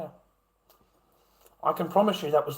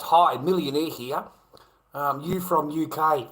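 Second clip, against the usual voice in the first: mock reading of chat; slower than usual. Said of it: "The guy writes".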